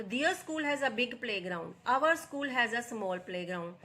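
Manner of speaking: very slow, every word laid out for students; slow dictation read. Shown as a demonstration. Teacher reading the example to her students, slow and deliberate. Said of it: "teacher rereads example sentences".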